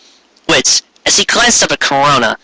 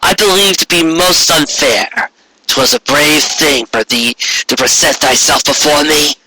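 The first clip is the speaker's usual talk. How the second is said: regal alicorn queen; 3 semitones higher than usual. Acted. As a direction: speak like an imperious queen granting favor. Corona continues regal speech.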